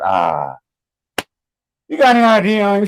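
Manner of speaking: annoyed auntie questioning nephews; frustrated auntie. Retold or imitated. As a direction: ask it like an auntie who is already fed up. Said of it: "She already frustrated".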